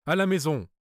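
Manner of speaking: sudden shout to the coachman; loud cry. Acted. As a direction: yell the command so passers-by turn. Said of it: "j'ai crié d'une voix si forte que les passants se sont retournés".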